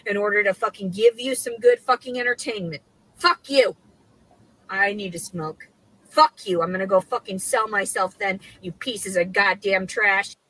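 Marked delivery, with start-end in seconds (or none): 3.2-3.8 loud furious curse; furious woman cursing at the viewers; angry. Real, not acted. Furious ranting woman swears. 6.1-8.7 furious woman cursing at the viewers; angry. Real, not acted. Furious ranting woman swears.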